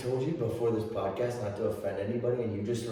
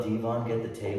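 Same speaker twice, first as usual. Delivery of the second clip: wrestler yell; 3 semitones higher, 5 dB louder than usual. Retold or imitated. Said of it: "When he would yell".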